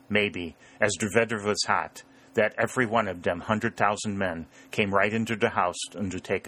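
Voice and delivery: mock-sorrowful German-accented confession; feigned helplessness, lightly German-accented; wily German farmer. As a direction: lament a poor memory in a German accent. German farmer feigning sad forgetfulness.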